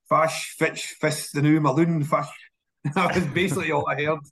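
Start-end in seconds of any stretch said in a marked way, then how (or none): 0.1-2.3 imitated Doric gibberish, clipped into separate words; mock Doric instructions as an incomprehensible jumble; Doric accent. Shown as a demonstration. Asked for his best Doric, imitating an operator's instructions, Doric accent. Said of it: "Do your best Doric accent".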